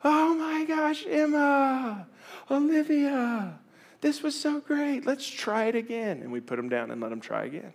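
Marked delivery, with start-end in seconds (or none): 0.0-6.2 very high, slow cooing praise; delighted praise. Retold or imitated. Parent cheering fallen toddler, high cooing praise. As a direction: gush over the baby's try. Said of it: "We pick 'em up".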